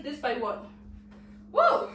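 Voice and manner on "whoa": sudden high-pitched "whoa!"; startled whoa. Real, not acted. Teacher wobbling in a move that's hard to hold, startled whoa. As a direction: yelp it as balance slips. Loses balance holding the move.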